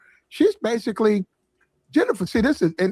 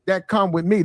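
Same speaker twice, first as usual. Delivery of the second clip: slightly higher, lightly put-on tough talk; mock street-tough impression; 4 semitones higher than usual. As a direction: imitate a singer laying down hard terms. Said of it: "That's how niggas talk".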